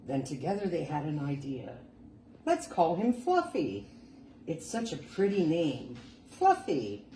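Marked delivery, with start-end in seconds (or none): 2.5-7.0 proud parents. Acted. Parents proudly naming their baby.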